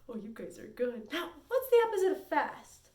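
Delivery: ordinary delivery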